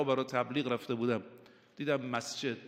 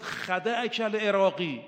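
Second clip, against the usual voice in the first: raised, louder call; retold shout; 5 semitones higher, 3 dB louder than usual. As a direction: call out after him, mock alarm. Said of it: "عمرو عاص فریاد زد".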